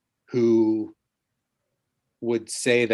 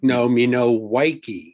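put-on baby voice; 3 dB louder than usual. Shown as a demonstration. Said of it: "Say, say it in a baby voice".

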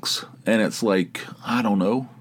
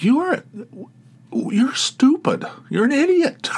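shouted scolding. Retold or imitated. Tony berating speaker over the snow story, mock shouting. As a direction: imitate an outraged scolding way up high. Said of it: "you don't need to be shouting it".

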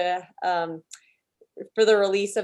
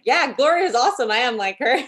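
higher, louder cheerful quote; acted enthusiasm; 5 semitones higher, 4 dB louder than usual. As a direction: act out proudly embracing it. Acts out a proud imagined reaction.

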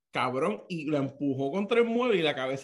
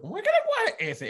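incredulous echo; 4 dB louder than usual. Retold or imitated. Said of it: "Y yo".

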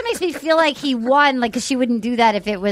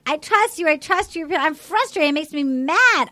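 a higher-pitched, exasperated rant; mock her venting her frustration; retold frustration; 5 semitones higher than usual. Fed-up woman venting at her man, exasperated. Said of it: "was so angry".

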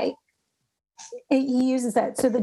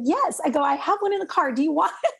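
eager offer; 5 semitones higher than usual. Retold or imitated.

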